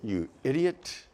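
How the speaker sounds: muttering the insult softly under the breath; mumbled under breath. Retold or imitated. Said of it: "you tend to mumble it".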